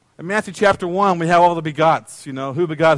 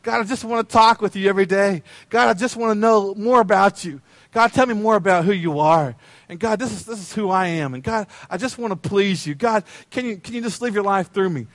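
simple prayer to God. Retold or imitated. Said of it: "our simplicity of saying".

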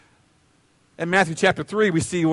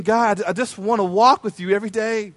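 simple prayer to God. Retold or imitated. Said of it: "our simplicity of saying".

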